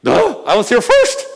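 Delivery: childish mock protest; mock whiny complaint. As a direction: play the impatient patient grumbling. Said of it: "I'm like".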